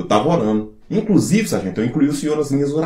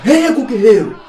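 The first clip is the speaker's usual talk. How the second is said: panicked shout; 4 semitones higher, 8 dB louder, slower than usual. Acted. Soldier shouting during raid.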